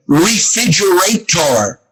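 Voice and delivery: slow, syllable-by-syllable Filipino accent. Shown as a demonstration. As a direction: imitate a Filipino accent, drawn out. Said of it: "they say".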